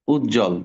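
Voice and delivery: উজ্জ্বল said ujjol, the b silent; উজ্জ্বল with the b phala dropped; silent b demo. Shown as a demonstration. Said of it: "ওই ব ফলার উচ্চারণ হবে না".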